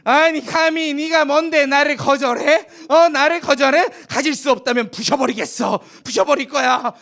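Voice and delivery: how dare you, spit it out furious; angry wife. Acted. Rejected wife lashing out at Joseph, loud and angry. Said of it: "화가 난 이제 보디발의 아내는".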